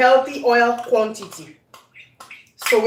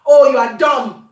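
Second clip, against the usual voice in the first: mock child insult; 3 dB louder than usual. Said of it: "Or like in English, I can say".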